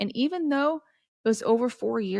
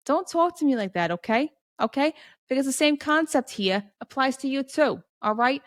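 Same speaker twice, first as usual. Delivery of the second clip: playfully scolding, pitched up; mock indignation; 4 semitones higher than usual. Host answers an imagined Harry Potter skeptic, mock indignant. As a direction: push back in mock offense.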